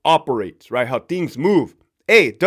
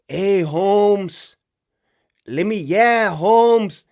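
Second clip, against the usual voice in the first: lightly put-on Chicano street accent, a touch higher; mock cholo slang; 3 semitones higher, much slower than usual. Guard imitating inmates to fit in, a hint of a mock Chicano accent. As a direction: staffer trying too hard to sound like an inmate, drawn out. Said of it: "like this".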